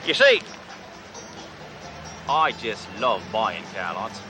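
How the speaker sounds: lightly put-on Aussie outback dealer; fake Australian accent. Cop posing as a rich dealer to the salesman, fake Australian accent. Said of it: "Name's Crocodile Bruce".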